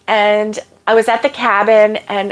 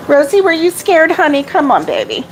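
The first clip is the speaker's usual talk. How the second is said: soothing dog; 4 semitones higher than usual. Real, not acted. Comforting the scared dog.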